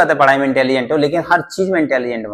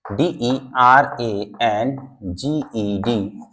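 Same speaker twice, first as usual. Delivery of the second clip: spelled out slowly; 3 semitones lower, 5 dB quieter, much slower than usual. Shown as a demonstration. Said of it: "मैं देखो spelling बोल भी रहा हूँ".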